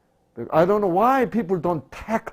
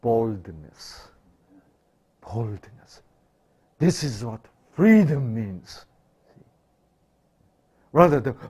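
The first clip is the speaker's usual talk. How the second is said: ordinary delivery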